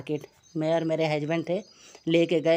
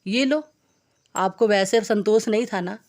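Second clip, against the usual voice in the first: husband telling off his wife, raised scolding voice; 3 semitones higher than usual. Retold or imitated. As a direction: nag her like an exasperated husband. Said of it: "मेरे पति कह रहे".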